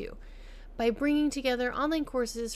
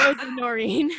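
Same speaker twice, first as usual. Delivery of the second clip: announcing the guest with a flourish, rising; grand introduction; 3 semitones higher, 8 dB louder than usual. Real, not acted. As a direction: present her like a star.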